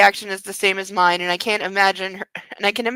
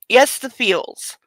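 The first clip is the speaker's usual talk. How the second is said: slow playful drawl; slow tease; much slower than usual. Acted. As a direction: draw it out slowly. Teasing reply.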